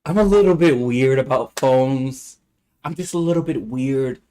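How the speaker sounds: lightly voiced, drawn-out teacher confession; a hint of a slow, awkward teacher; imitated awkward teacher. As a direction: stretch it out like an uneasy teacher. Voicing the teacher confessing phone anxiety.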